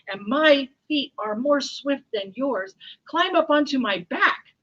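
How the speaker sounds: urgent lion. Acted. Lion telling the mouse to climb on, urgent. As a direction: urge it on with force.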